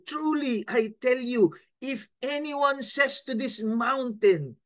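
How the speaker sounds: with feeling. Shown as a demonstration. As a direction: read it with feeling, rising on the words. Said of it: "Lagyan mo ng feelings". (binasa nang may damdamin at mataas na tono)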